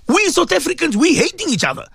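rising passion, pressing each phrase home; impassioned plea. Real, not acted. Radio host pleading with listeners about violence, impassioned.

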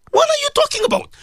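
high, incredulous rhetorical question; exasperated. Real, not acted. Host mocking a denial to his listeners, incredulous. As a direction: throw the question up in disbelief.

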